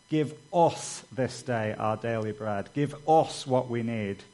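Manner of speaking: "us" punched in each "Give us"; emphatic "us", the rest lighter; stress on "us". Shown as a demonstration. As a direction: lean on "us" every time it comes. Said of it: "It's, "Give us".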